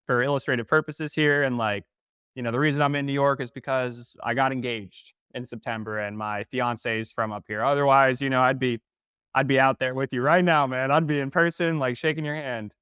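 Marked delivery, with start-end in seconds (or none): 2.5-12.7 lightly put-on Southern accent; folksy Southern accent, lightly exaggerated. Explaining himself to the banker, exaggerated Southern accent. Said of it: "Again, I'm exaggerating".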